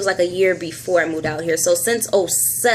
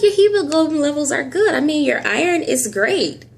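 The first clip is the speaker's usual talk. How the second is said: imitating the doctor; 7 semitones higher than usual. Doctor's voice in retold scene.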